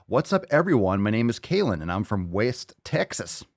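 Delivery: put-on West Texas twang; Texas accent. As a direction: read it with a light Texas accent. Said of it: "why I did that accent".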